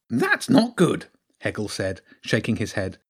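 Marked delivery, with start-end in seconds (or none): 0.1-1.1 high-pitched, fretful little creature; worried hedgehog character. Acted.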